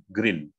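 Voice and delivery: GREEN said as grin, with a short relaxed i; short vowel. Shown as a demonstration. Coach showing Maulida the word for grinning, short vowel. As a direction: keep the vowel in GREEN brief and lax. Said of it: "nyengir itu ya, kata nyengir".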